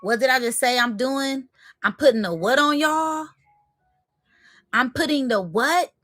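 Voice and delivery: stunned by the sign; excited incredulous questions. Real, not acted. Reacting to the card's message.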